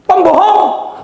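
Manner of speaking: mock angry wife shouting; wife yelling. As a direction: shout the accusation at him. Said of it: "Bojomu ngomong ngono".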